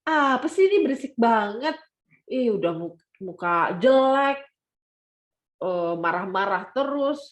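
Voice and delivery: a mock-disgusted put-down; judgmental scoffing. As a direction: scoff at the girl like a gossip. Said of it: "si mbak-mbak ini marah-marah gitu".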